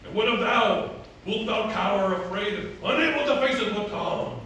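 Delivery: declaimed mock-archaic challenge; challenging masked hero. Hero challenging Selina to face the storm, declaimed. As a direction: throw it down like a stage hero. Acts the hero of his play.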